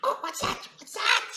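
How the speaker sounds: hushed, breathy creature murmur; quiet. Acted. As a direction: pull it right back to a hush. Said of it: "He's, he's saying it quieter now".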